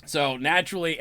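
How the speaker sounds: normal talking voice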